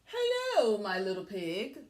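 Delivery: a lightly voiced sly wolf, rising on hello; sly wolf greeting. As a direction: sweet-talk the pig like a wolf. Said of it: "said the wolf".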